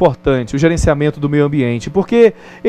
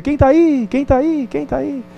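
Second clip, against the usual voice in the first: higher, repeated and fading much softer each time; echo; 8 semitones higher, 3 dB quieter than usual. Retold or imitated. The valley echoes the boy's question back, fading away. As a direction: let it die away like a mountain echo. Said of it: "de longe ele ouve".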